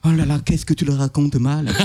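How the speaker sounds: low, weary big-brother reproach; understated disappointed grumble; exasperated sigh. Acted. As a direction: sigh it out in mild dismay. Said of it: "le grand frère qui secoue la tête à côté en soufflant".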